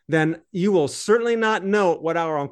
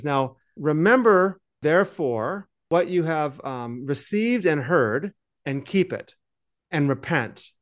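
reading scripture aloud. Shown as a demonstration. Reading his translation to the co-host, solemn and deliberate. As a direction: read it out like a solemn verse. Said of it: "I'm just gonna translate this on the fly myself".

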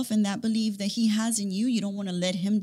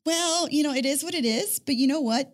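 easygoing daddy; 5 semitones higher than usual. Retold or imitated. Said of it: "My daddy will be like".

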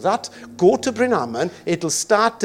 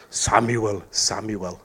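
lower, booming voice of God with an echo; deep God voice; 9 semitones lower, slower than usual. Acted. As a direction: call out like a movie God. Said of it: "In a deep voice".

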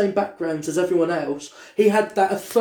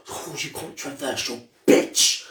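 camp friend; 5 semitones lower, slower than usual. Retold or imitated. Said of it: "And he went".

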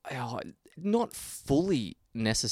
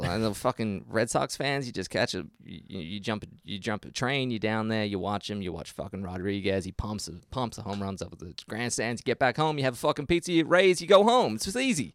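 put-on muddled New York accent. Co-host riffing on a ball game trip, wobbly New York accent. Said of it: "That was about five different accents in one".

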